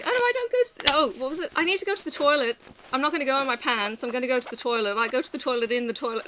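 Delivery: sing-song it like a preschool host teaching toddlers; kids' show presenter. Retold or imitated. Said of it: "it was kinda like".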